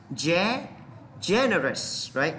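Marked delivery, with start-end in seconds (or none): 0.1-0.7 "Ge-" alone, held and rising; stressed syllable. Shown as a demonstration. Teacher points out the stress to students, isolated syllable. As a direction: isolate the accented opening "Ge-". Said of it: "Dấu nhấn này nè".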